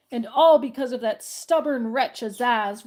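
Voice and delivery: a mildly loud, furious growl; understated roar at his enemy. Acted. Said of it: "roared the math magician".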